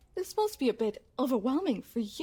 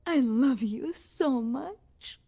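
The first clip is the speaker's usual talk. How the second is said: obsessive; 4 dB louder, slower than usual. Acted. Unhinged love confession.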